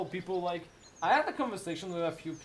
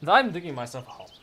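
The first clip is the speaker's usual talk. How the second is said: louder repeat; 2 semitones lower, 6 dB louder, faster than usual. Real, not acted.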